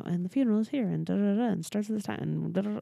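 rattled-off details with filler syllables; rushed recital. Retold or imitated. Mom updating family about funeral, hurried recital. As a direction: race through it by rote. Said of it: "was going through that so fast".

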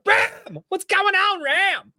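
high, sing-song call to a friend; excited greeting. Retold or imitated. Greeting Ram whenever he shows up in chat, high excited call. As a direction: greet him like an old buddy, way up high. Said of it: "I say, like".

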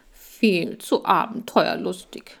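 lightly nasal, slow and bored; nasal drawl. Acted. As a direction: say it through the nose, unimpressed. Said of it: "näselte Laschi". (leicht näselnd und gedehnt)

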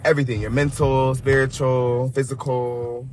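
sincere blessing. Real, not acted. Wishing guest well sincerely.

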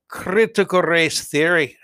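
a touch of Irish with rolled R; slipping into Irish accent. Real, not acted. Reading out the dean's comments, accidental Irish accent. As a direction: let a slight Irish lilt slip in. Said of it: "I keep slipping into an Irish accent".

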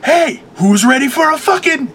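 bursting through a wall, hyping the guy up; hyped-up announcer. Retold or imitated. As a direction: pump up the room. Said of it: "the first one, I'm like".

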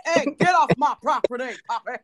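loud mock telling-off as an old granddad; hint of old granddad. Teasing friend for sounding like a granddad, mock old-man telling-off. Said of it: "you sound like an old granddad".

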